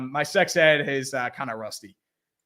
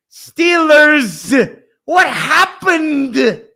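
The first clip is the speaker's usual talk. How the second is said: raised, drawn-out "what happened?"; dismayed cry; 9 semitones higher, 8 dB louder, much slower than usual. Real, not acted. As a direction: moan it at the team in disbelief.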